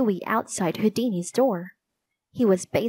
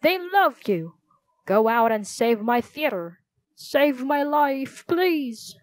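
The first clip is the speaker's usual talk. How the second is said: high, melodramatic pleading, slowing at the end; hysterical; 4 semitones higher than usual. A narrator's reading. Theater owner begging children to save his theater, hysterical. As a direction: beg desperately, dragging out the final plea. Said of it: "trying to calm the hysterical man".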